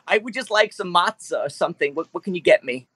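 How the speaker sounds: lightly voiced whiny creature; nasally Jewish T-Rex. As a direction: ask for food like a fussy T-Rex. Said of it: "he's a very Jewish T-Rex".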